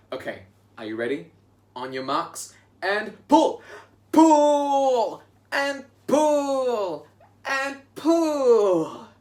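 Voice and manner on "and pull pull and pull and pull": high, loud straining heave calls; heave, shout every pull; tug of war. Pretend. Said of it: "pull the rope together".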